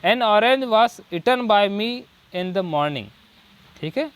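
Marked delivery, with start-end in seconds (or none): 0.0-3.0 very slow, word by word dictation; slow example read. Shown as a demonstration. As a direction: read each word slowly for the class. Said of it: "जैसे example देखते हैं next". (धीमे-धीमे उदाहरण पढ़ना)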